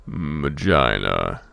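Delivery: "Magina" low and slow as muh-JY-nuh; settling on pronunciation. Shown as a demonstration. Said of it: "forgot what the proper pronunciation was".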